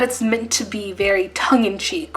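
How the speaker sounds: soft unvoiced whisper; whispered aside. Real, not acted. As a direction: whisper it like a secret.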